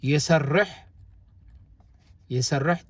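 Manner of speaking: "يسرح" with the R held double, yi-sar-rah; doubled R. Shown as a demonstration. Teacher demonstrating the word for learners, "يسرح" with a doubled R. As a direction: linger on the rolled R in the middle of "يسرح". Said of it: "I'm doubling the R".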